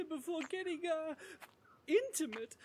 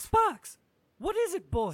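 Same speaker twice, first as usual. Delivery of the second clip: calling out; 2 semitones higher, 8 dB louder than usual. Acted. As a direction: call after him. Calling after running dog.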